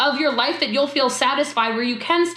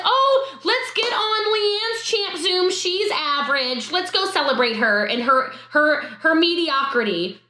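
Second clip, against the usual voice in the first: mocking quote; 3 semitones higher than usual. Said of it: "Nobody says".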